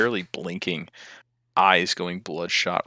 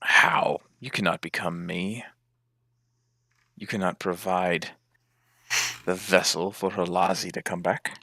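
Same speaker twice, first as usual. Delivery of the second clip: totem's challenge. Acted. Game master voices the challenging totem.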